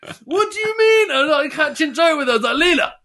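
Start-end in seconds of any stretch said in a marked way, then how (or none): 0.1-1.1 high, rising disbelief; can't believe what he hears; incredulous. Retold or imitated. To the masseuse on the phone, high and incredulous. 2.6-2.9 high, loud disbelief; mock outrage. To the masseuse, high and stunned.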